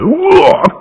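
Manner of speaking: rising to a high, slow pained wail; half-laughing retold cry of pain. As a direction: relive the probe hitting your throat. Camera pushed painfully into nose.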